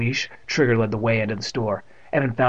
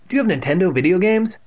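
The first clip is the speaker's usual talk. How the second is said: mild shout, higher and louder; shouted question; 8 semitones higher, 5 dB louder than usual. A narrator's reading. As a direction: call it out to someone up front. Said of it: "She shouted up the front".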